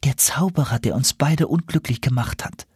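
a hint of an owl princess; confiding owl princess. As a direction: explain it as the enchanted owl.

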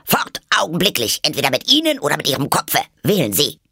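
high, loud imperious ultimatum; shouting. A narrator's reading. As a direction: bellow the order like an enraged queen. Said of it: "schrie die Königin". (herrisch geschrien)

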